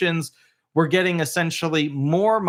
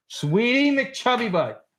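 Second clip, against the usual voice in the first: high, slow doting pet voice; 7 semitones higher, slower than usual. Real, not acted. Baby talk to dog.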